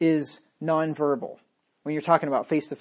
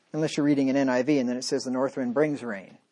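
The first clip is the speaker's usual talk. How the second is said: sarcastic; 5 semitones lower, 4 dB quieter than usual. Acted. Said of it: "in case you didn't get the sarcasm there".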